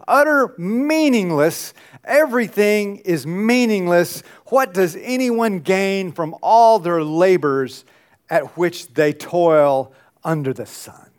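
slow, weighty proclamation, settling toward the end; dramatic scripture reading. A narrator's reading. Preacher reads the Teacher's verse to the congregation, dramatic scripture reading.

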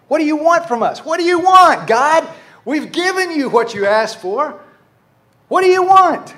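high, loud exasperated demand; angry shouting. Acted. The people demanding what God wants, angry shout. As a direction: act out shouting at God in frustration. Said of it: "they're shouting at each other".

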